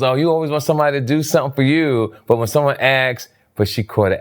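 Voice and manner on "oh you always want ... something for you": defensive retort. Retold or imitated. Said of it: "her argument was".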